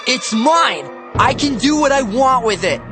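put-on high, loud whiny kid; whining. A narrator's reading. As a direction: whine like a spoiled child. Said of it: "he whined".

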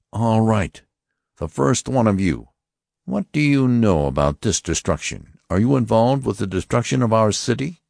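high, stern voice of an alien officer; Martian officer. Acted. Martian officer warning the passengers, stern and high. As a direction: announce it like a cold interrogator. Lighter questions with raised rod.

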